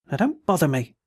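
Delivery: understated desperate threat; desperate menace. Acted. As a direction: warn him off, cornered. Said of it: "with desperate menace".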